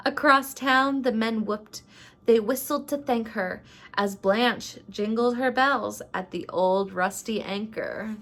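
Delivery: measured, rhyming storybook narration; story read-aloud. A narrator's reading. Vlogger reads a rhyming Christmas story to viewers, storybook narration. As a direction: read it like a holiday picture book.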